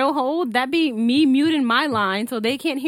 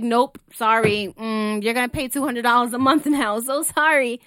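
fake sorry. Rep mocking caller on phone.

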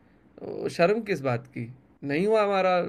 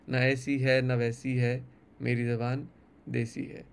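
poem recitation; 2 semitones lower than usual. Acted. Poet reciting his poem to the interviewer, measured recital.

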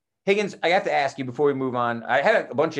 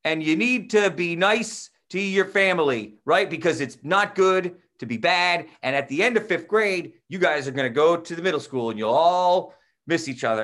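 stunned rambling; 6 semitones higher, 5 dB louder than usual. Retold or imitated. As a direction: ramble earnestly at children, over-stretching the words. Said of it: "I started rambling".

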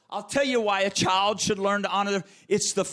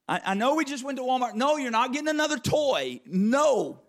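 put-on higher, firm no to a begging child; parent scolding child; 7 semitones higher than usual. Parent telling a child at Walmart no toy, firm. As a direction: shut down the toy request.

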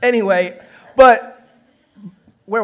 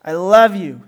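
grudging, unmeant declaration; dutiful mumbled kid reply; half-hearted child; 3 semitones lower, 5 dB louder, slower than usual. Acted. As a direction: say it only because you were told. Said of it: "say it kinda half-hearted".

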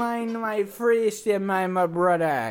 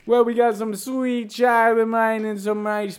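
put-on Jamaican accent; 4 dB louder than usual. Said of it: "Jamaican cruise".

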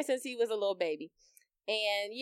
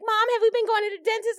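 higher, louder prim doctor voice; mock doctor; 11 semitones higher, 6 dB louder than usual. Mom mimics doctor asking her about the dentist, higher and prissy. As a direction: play the doctor as a prissy question.

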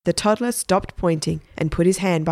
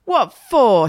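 higher and louder, a mock shout; big brother yelling back in protest; loud indignant outburst; 6 semitones higher, 6 dB louder than usual. A narrator's reading. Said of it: "shouted Stephen".

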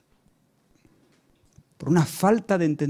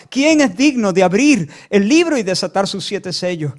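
louder proclamation, imitating a shouting angel; angel's cry; 4 semitones higher, 8 dB louder than usual. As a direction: call it out with force. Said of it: "el ángel gritaba y gritaba".

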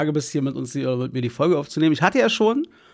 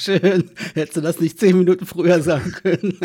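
laughing; 2 semitones higher than usual. Real, not acted. Joking reaction, laughing.

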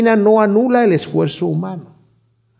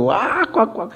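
imitated laughter; 5 semitones higher, 6 dB quieter, slower than usual. Preacher imitating the wife laughing at the spectacle, mock laughter. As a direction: imitate someone cracking up. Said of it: "muerta de la risa".

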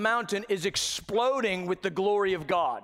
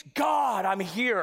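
calling out; much slower than usual. Retold or imitated. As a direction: shout up the mountain. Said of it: "And he speaks".

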